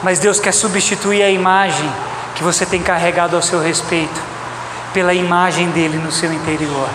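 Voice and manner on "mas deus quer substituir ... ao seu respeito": normal talking voice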